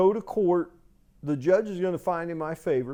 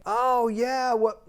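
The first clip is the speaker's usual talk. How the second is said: mock tenant; 8 semitones higher, 4 dB louder, slower than usual. Imitating tenant's reaction.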